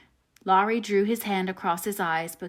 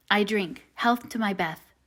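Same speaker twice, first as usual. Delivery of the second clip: brave; slower than usual. Acted. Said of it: "said bravely".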